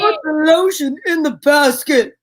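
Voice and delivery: a hint of menacing killer; lightly voiced demand; understated creepy order.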